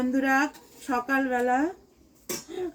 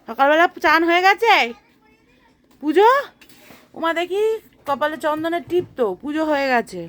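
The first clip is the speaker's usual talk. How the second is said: excited; 4 semitones higher, 6 dB louder than usual. Real, not acted. Amazed at mother bathed already.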